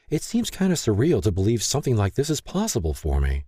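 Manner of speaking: lightly voiced, demand to know why; Lay's hurt letter. Lay doubts.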